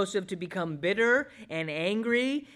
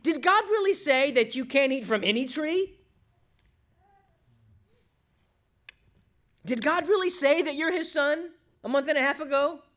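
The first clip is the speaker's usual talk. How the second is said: high, insinuating question; mock-innocent tempter's challenge; tempting serpent; 9 semitones higher, 4 dB louder than usual. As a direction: cast doubt with a raised, incredulous voice. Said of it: "The serpent said to Eve".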